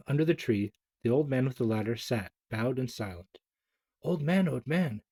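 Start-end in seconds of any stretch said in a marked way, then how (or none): 4.0-5.0 put-on shouting boy. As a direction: shout for the old man, urgent. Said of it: "shouted Chang".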